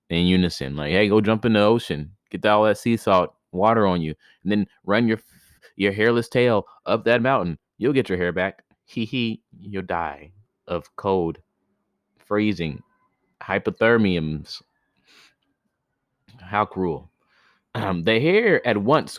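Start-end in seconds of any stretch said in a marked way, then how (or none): 0.9-8.6 fast, snide mock advice; mean trickster voice. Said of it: "eighty princes being a dick". 8.8-14.6 sneering giggle. Retold or imitated. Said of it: "being a dick at the same time".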